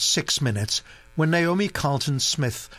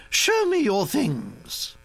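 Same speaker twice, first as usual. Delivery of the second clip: commanding duchess; 10 semitones higher, slower than usual. Acted.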